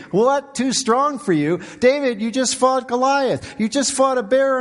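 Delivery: high-pitched incredulous challenge; mock disbelief. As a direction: challenge him as if you can't believe it. Mock disbelief at David's complaint.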